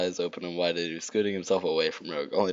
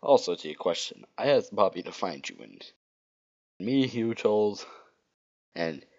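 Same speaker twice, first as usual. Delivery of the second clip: lightly put-on throaty Rogue; stoma voice; slower than usual. Rogue apologizes to Sonic for ruining his nap, stoma voice. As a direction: apologize in a throat-straining character voice. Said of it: "that stoma voice sounds like".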